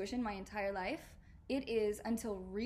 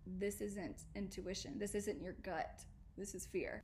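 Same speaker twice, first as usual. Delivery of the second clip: quiet realization; 8 dB quieter than usual. Retold or imitated. Inner realization voiced quietly.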